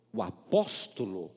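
a receptionist doubting what she heard. Retold or imitated. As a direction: ask in a low, slow, puzzled voice. Receptionist surprised.

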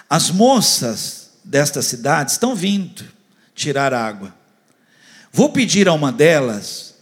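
solemn Bible reading aloud; scripture reading. Acted. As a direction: proclaim the verses from the pulpit.

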